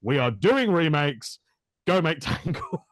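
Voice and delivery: slow, punched "doing" as imitated executives; slow mock decree breaking into a laugh; mock emphatic reversal. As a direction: imitate a studio U-turn, drawn out. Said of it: "and they were like".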